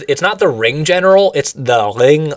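imitating the German announcer saying the ring, loud and throaty; German ring general. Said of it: "It's something very throaty".

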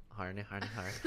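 "horny" in a put-on Irish accent. Shown as a demonstration. Man shows off his favorite accent word, in a mock Irish accent. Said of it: "my favorite word in the accent is horny".

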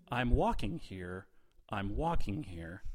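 slow, unemotional quote reading; deadpan. Shown as a demonstration. Host feeding players a film quote, deadpan. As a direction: read the famous line without any drama. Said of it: "how deadpan you're saying them".

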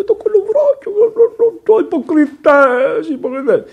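high, slow, scandalised mock voice; mocking offended prude. A preacher mocking scandalised listeners, high and slow. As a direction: parody the prudes, drawn out high. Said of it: "είπε".

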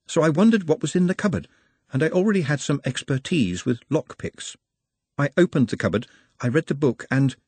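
careful, bookish Nutt confessing; apologetic Nutt. Acted. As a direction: explain the misdeed apologetically.

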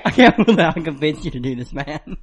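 laughing while talking; can't stop laughing. Real, not acted. Friend teared up from challenge.

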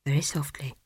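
soft unvoiced whisper; hushed whisper. Librarian hushes her.

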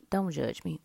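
soft unvoiced whisper to the audience; embarrassed whisper. Real, not acted. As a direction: whisper the plea sheepishly. Embarrassed aside to viewers.

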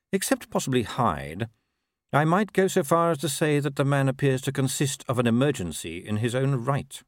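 measured ruler's voice, slowing at the end; dry patrician. Acted. Patrician to captain judging the sergeant, dry and measured. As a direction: deliver a considered verdict, unhurried.

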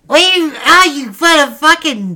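loud high horrified shock; shocked outburst. Acted. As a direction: react like it's scandalous. Shocked outrage at piercing.

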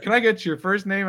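lightly voiced friendly support agent; imitating the nice Irish helpdesk lady. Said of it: "this nice Irish lady".

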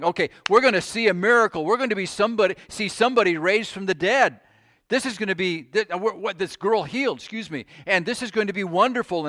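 quick, eager voice of the hopeful crowd; excited crowd. Retold or imitated. Preacher voicing the crowd heading to Jairus's house, lightly excited. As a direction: bubble over like someone about to see a miracle.

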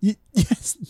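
high put-on voice; a hint of a president's voice; J F K impression. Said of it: "I was being J F K right there".

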